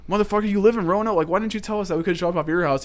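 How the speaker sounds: high, loud incredulous outburst; can't believe he lives nearby; disbelief. Retold or imitated. Friends retelling their shock at Max, high incredulous yell. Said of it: "we're like".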